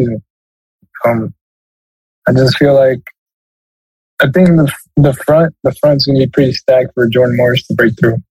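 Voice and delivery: nasal voice from a cold; talking through a blocked sick nose; stuffy nose. Real, not acted. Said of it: "bear with me with my nasally voice".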